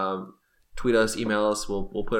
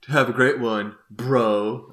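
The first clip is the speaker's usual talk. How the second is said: frat bro; 6 dB louder, much slower than usual. Retold or imitated. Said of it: "talking in your bro voice".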